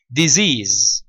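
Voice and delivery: "Disease" said with buzzing z sounds, dih-ZEEZ; teacher modelling "Disease" with z sounds. Shown as a demonstration. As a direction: voice both s letters in "Disease" as z. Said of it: "the S letter is pronounced as a Z sound".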